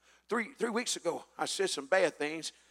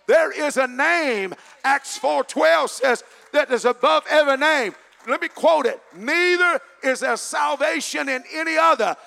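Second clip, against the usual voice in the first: loud, high, fervent preaching; thundering sermon delivery; full-force preaching; 8 semitones higher, 10 dB louder than usual. Real, not acted. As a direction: preach it out with fire to the congregation.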